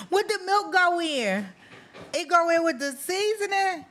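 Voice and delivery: high, giggly questions through laughter; can barely ask for laughing. Real, not acted. Host quizzing the guest about milk, laughing high.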